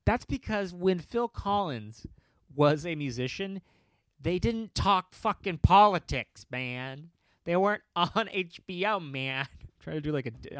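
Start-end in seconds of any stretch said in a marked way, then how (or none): 0.1-9.5 lightly imitated comic's rant; a touch of a ranting comedian impression; Dennis Miller. Comic slipping into another comedian's rant, lightly imitated. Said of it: "almost doing a Dennis Miller".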